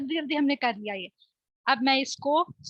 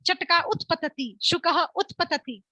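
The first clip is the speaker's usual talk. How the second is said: slow, measured calls of the bird game; slower than usual. Shown as a demonstration. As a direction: call each bird out slowly for the class to act. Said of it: "तो मैं जल्दी जल्दी बोलूंगी". (धीमे-धीमे खेल की पुकार)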